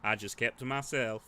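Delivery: lightly voiced gruff drifter, slow; a slow, wary drifter warning the player; gruff stranger. Player hears a drifter's warning, lightly gruff.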